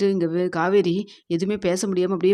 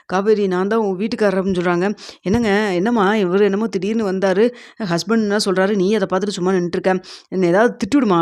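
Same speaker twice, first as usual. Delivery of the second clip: raised voices, louder throughout; calling it out heatedly; a loud, upset exchange; 6 dB louder than usual. Retold or imitated. Tense family confrontation.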